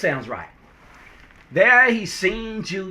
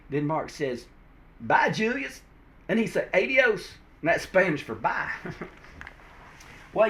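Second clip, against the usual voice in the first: folksy Southern comic narration; down-home Southern storyteller. Acted.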